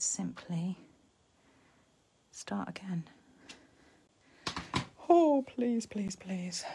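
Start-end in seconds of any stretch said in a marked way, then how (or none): 5.1-6.7 anxious pleading. Real, not acted. Crafter hoping her gold embossing works, anxious pleading. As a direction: plead under your breath, hoping hard.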